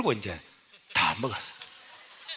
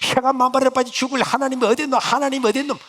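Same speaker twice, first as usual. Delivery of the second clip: high, loud mocking curse; cursing mother; 9 semitones higher, 5 dB louder than usual. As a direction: defy God like a furious mother. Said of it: "그것도 안 되는". (하나님을 욕하는 격분한 어머니)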